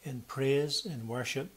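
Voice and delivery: solemn, reverent praying voice; earnest pleading prayer. Acted. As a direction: pray earnestly for the congregation. Pastor leads congregational prayer.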